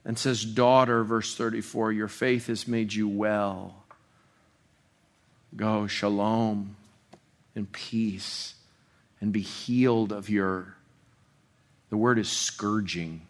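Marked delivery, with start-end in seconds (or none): 0.4-1.0 tender address, hushed and loving. Retold or imitated. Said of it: "he speaks to her so tenderly". 1.9-10.8 soft, slow, lower blessing; Jesus blessing the healed woman, softly and slowly; tender blessing. Retold or imitated. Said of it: "he speaks to her so tenderly".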